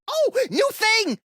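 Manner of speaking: light up at something shiny; sudden delight. Acted. Max spotting something new, suddenly delighted.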